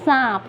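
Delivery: सांप with a nasal long aa; सांप, vowel nasalized before the p. Shown as a demonstration. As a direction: let the aa of सांप ring through the nose. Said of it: "उच्चारण में अंतर आया ना".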